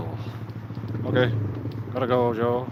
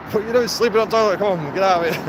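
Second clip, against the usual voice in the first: higher, louder and fast scolding; mock telling-off; 5 semitones higher, 4 dB louder, faster than usual. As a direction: rouse him, laughing at him. Waking mate asleep on toilet.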